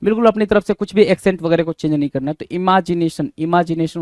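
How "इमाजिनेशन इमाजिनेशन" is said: i-MAA-ji-ne-shan, open second syllable; correct imagination. Shown as a demonstration. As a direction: say इमेजिनेशन as "i-maa-ji-nay-shun". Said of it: "इमेजिनेशन होता है". (इमेजिनेशन को "इमाजिनेशन" बोलें)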